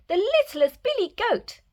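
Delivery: put-on high, squealing baby goat; high little kid goat answering; squeaky little goat. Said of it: "Baby Gruff squealed".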